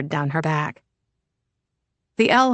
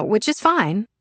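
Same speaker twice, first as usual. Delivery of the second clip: fine leaned on, a touch higher; stress on fine; 4 semitones higher, slower than usual. Acted. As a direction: hit the word fine so it doesn't sound like a guilt trip. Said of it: "emphasizing the word fine".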